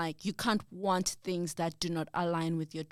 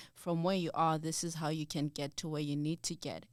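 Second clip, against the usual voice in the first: soft, lower, gentle guidance; loving voice; 3 semitones lower, 5 dB quieter than usual. Acted. God giving directions to a lost traveller, softly loving. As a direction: guide them tenderly, without reproach. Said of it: "It's a very loving voice that says".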